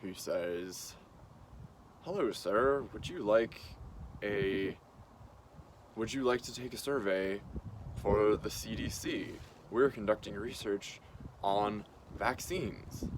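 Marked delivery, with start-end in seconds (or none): 2.0-13.1 flat, even telemarketer drone; monotone voice. Retold or imitated. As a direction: read it like a bored robot caller. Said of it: "this man in a very monotone voice".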